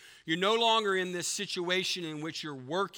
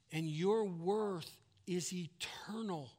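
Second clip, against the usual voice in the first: whisper; 3 semitones higher, slower than usual. Real, not acted. Solemn sermon climax.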